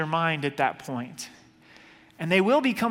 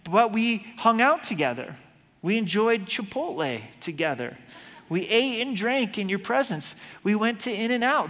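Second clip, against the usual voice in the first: pleading excuse; 4 semitones higher than usual. Retold or imitated. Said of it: "they're saying".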